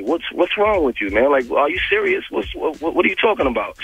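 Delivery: stammering incredulity, acted out; retold disbelief. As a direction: question him as if he's lost it. Retold confronting of Ray J.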